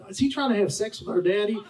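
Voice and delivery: high, disbelieving mock voice of grown sons; a mocking high voice asking if he is after their father; incredulous sons. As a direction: squeak it out like scandalized sons. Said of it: "they're like".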